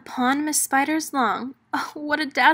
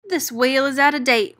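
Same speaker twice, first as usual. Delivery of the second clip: loud, fast, thrilled sales pitch; whooping; 2 semitones higher, 5 dB louder, faster than usual. Acted. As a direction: whoop it out to win the buyer. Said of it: "whooped Hop".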